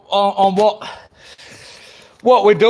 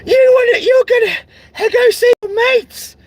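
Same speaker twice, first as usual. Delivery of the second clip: mocking shout; 4 dB louder than usual. Mocking her complaint, shouted.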